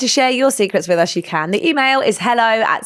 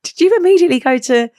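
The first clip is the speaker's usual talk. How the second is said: laughing disbelief; 3 semitones higher, 4 dB louder than usual. Retold or imitated. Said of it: "She was like".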